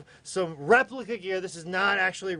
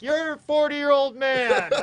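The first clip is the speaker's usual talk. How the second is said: high, loud, slow words through laughter; laughing; 10 semitones higher, 7 dB louder, slower than usual. Retold or imitated. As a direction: say it cracking up. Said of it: "I'm like".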